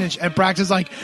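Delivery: ordinary talk, nothing marked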